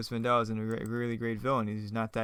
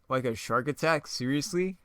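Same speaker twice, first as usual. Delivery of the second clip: lightly disbelieving question, "seriously" pitched up; incredulous echo; 3 semitones higher than usual. Acted. Hero repeating the villain's bad line back, mildly incredulous. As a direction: echo "shark attack" as a doubtful question.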